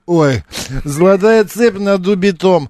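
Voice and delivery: put-on drunken slurred recital, with oohs and ahs; town drunk. Shown as a demonstration. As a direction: read it like a staggering drunk. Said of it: "прочитать как пьяный?".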